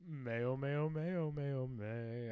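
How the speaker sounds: chanted warm-up syllables, run together; vocal warm-up. Pretend. Stalling before an accent attempt, mock vocal warm-up. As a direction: limber up the voice in a singsong. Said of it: "I gotta do some vocal warm-ups".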